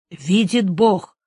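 a slow, forced, loud cry; straining shout. Acted. Dying soldier answering his host, straining shout. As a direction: push the words out with effort. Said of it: "закричал солдат с натугой".

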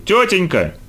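put-on high-pitched boy's cry; high, drawn plea to a grown-up; calling out. A narrator's reading. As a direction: call out insistently for her attention. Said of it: "крикнул ей Вандербуль".

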